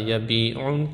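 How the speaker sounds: یبیعون with the "ii" lengthened; long vowel. Shown as a demonstration. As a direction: hold the "bii" in یبیعون.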